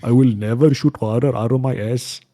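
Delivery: mock Indian accent. Friend voicing Indian Neo, mock Indian accent. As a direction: declare it in a comic Indian accent. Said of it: "the Indian version would be like".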